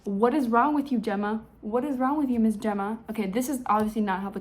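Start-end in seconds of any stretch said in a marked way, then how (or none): 0.0-3.0 louder, incredulous friend; half-hearted mock disbelief; exasperated friend. Friend confronts Gemma, louder and incredulous. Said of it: "stares at her and she's like".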